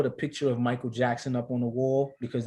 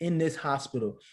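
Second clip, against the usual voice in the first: retold getting pissed; 3 semitones higher, 3 dB louder than usual. Husband retelling confronting the anesthesiologist, controlled retold anger. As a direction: recount your rising anger at the lady. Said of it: "now I'm getting pissed".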